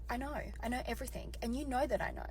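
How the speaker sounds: soft, controlled confrontation; super calm. Retold or imitated. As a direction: state it calmly and softly, as if retelling it. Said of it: "I just look at him super calmly".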